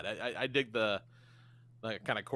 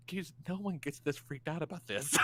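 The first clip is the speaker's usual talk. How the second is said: muttered aside, softer and a bit higher; Conan O'Brien under his breath; 5 semitones higher, 7 dB quieter than usual. Retold or imitated. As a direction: say it quietly to yourself, imitating a baffled onlooker. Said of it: "under his breath, Conan just goes".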